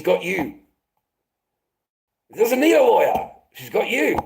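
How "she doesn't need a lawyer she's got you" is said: higher and louder, biting sarcasm; louder sarcastic repeat. Real, not acted. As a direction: hammer the point home the second time. Repeated with more force.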